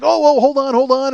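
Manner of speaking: mock panic, buying time; hurried imitation of a performer in trouble; panicked magician. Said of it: "he's hopping around and he's panicked".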